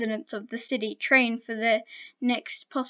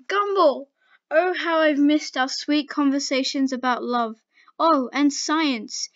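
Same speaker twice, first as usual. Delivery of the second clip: swooning; 3 semitones higher, 4 dB louder than usual. Acted. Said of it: "Dendy said as she swooned".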